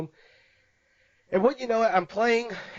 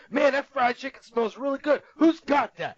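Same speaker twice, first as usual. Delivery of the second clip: raised, higher and louder call across the store; a grown man loudly announcing he smells chicken; mock shouting man; 8 semitones higher, 4 dB louder than usual. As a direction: call it out for everyone to hear. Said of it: "he's, like, shouting this".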